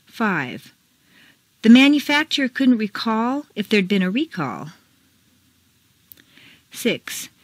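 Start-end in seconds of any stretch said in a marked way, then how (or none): 1.6-4.7 first "recall" as reCALL, last as REcall; contrasting word stress. Shown as a demonstration. Teacher reads exercise, contrasting reCALL with REcall. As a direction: stress reCALL for verb, REcall for noun. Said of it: "Mark the intonation".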